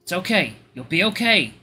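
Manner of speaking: gently lifted comforting voice; reassuring. Acted. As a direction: soothe a sobbing friend. Narrator's character comforts sobbing friend.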